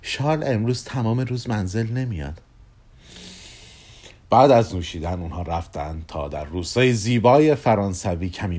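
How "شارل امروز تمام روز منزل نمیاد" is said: understated suggestive hint; mischievous, meaningful. Acted. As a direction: say it with a touch of mischief. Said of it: "با لحن شیطنتباری که خیلی پرمعنی بود".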